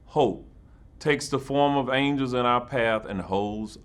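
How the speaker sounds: measured, reverent recital of verse; solemn poem reading. Acted. Mayor reads a poem to first responders, reverent and measured. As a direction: give each line weight, unhurried. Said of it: "leave you with a poem".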